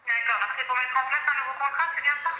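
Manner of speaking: tinny phone call voice; over the phone. Real, not acted. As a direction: voice through a phone line. Phone agent's voice over the line.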